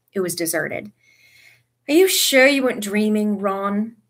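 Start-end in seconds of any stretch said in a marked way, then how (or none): 1.9-4.0 louder sceptical question; doubtful boy. A narrator's reading. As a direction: ask it firmly, doubting. Another boy doubts Ron.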